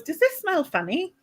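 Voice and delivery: posh funny. Retold or imitated. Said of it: "When you say funny like that".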